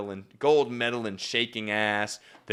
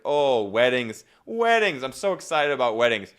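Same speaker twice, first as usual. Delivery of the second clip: sarcastic; 7 dB louder than usual. Acted. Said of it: "but in a sarcastic way".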